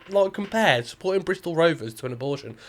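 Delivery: cracking up mid-sentence; laughing while talking. Real, not acted. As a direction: tell it through real laughter. Cracking up retelling the mad analogy.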